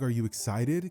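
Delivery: flat, emotionless question; monotone voice. Retold or imitated. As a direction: ask it with no feeling at all. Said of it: "Kinda like in a monotone voice".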